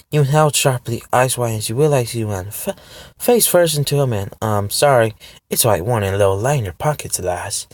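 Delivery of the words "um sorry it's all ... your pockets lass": put-on a light Scottish accent on the charming stranger; lightly Scottish, playful stranger. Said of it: "a Scottish accent".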